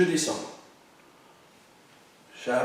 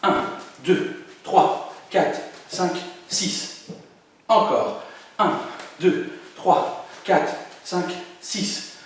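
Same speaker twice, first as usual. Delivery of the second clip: faster counting; 2 semitones higher, much slower than usual. Shown as a demonstration. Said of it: "On accélère encore".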